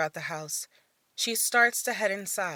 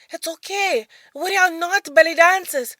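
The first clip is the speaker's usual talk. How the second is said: calming; 10 semitones higher, 12 dB louder than usual. Acted. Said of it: "tries to calm the boy down".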